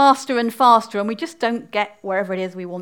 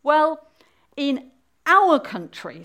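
slightly raised, halting start; panting a little; 4 semitones higher, 5 dB louder, slower than usual. Acted. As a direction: begin haltingly, a touch out of breath. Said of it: "still panting a little".

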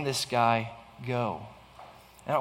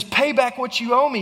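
raised, louder demand to pay back; 7 semitones higher, 5 dB louder than usual. Acted. Servant demanding his debt from a fellow servant, loud and high. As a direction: bark the demand for the money. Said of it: "he demanded".

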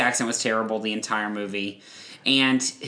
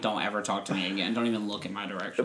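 quick, clipped mock anger; fast mock outrage; 2 semitones lower, 5 dB quieter, faster than usual. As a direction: snap it off fast and offended. Retold angry retort.

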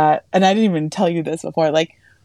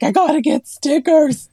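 excited; 10 semitones higher than usual. Retold or imitated. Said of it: "I was like".

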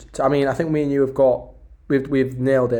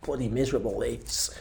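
miserable moan; 5 dB quieter than usual. Acted. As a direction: moan it like a fed-up stranded passenger. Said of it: "do not want to be there going".

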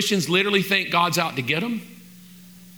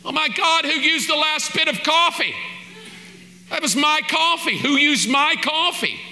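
higher, hammed-up coffee tantrum; mock outrage; 6 semitones higher than usual. Preacher acting out a household coffee fight, mock outrage. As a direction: play the indignant one whose coffee is gone.

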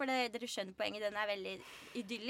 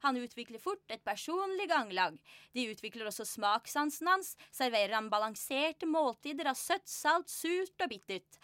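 lively, evenly flowing literary reading; story narration; 3 semitones higher than usual. A narrator's reading. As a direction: read the tale aloud to an audience. Reads from her book aloud.

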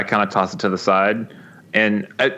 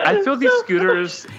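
exasperated. Real, not acted. Ranting about scooters.

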